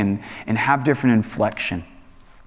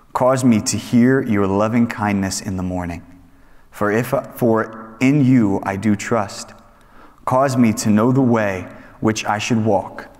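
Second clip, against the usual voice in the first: measured scripture reading; 2 semitones lower than usual. Acted. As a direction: read it like holy words. Scripture reading before prayer.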